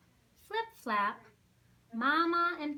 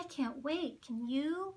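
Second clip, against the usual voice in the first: put-on high, eager squeak of a young penguin; squeaky; 4 semitones higher than usual. Eager chick squeaking to Pip at the shore. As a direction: squeak it out, bubbling over. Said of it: "she squeaked".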